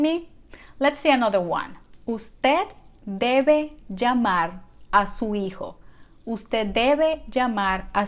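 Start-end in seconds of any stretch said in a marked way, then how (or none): 2.1-5.8 slow, in separated word groups; slow teaching model. Shown as a demonstration. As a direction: say it slowly for learners to follow. Teacher models the sentence slowly first.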